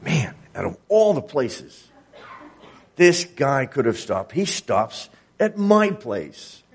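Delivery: lightly voiced Zacchaeus, amazed and slowing at the end; a hint of wonder, drawn out on my place; amazed inner thought. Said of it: "Zacchaeus must have thought".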